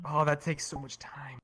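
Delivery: breathy whispered whining complaint; whiny. Real, not acted. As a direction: whine it under your breath. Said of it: "You're whiny".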